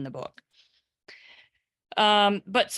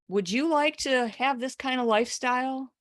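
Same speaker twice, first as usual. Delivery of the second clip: lightly acted sales come-on, higher; video pitchman; 5 semitones higher than usual. Seller offers viewers a lifestyle, mildly salesy. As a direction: tempt the viewer with a lifted, mild pitch.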